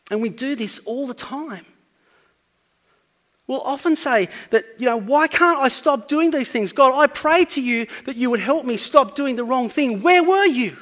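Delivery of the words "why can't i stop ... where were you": rising louder and higher, ending in an indignant demand; frustrated prayer. Retold or imitated. Believer blaming God for unanswered prayer, rising indignant outburst. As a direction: plead with God, then snap at him by the end.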